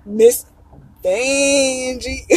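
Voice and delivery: imitating Vanjie's exit, stretching Vanjie; Vanjie exit line. Vlogger quoting a favourite queen's famous exit, mock drag drawl. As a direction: say it like the drag queen backing offstage. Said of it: "but Vanjie".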